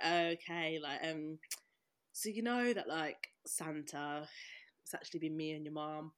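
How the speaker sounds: low, hushed, halting dad voice; hesitant confession. Retold or imitated. Dad confessing the Santa secret to a child, hushed and hesitant. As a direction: break it softly and haltingly.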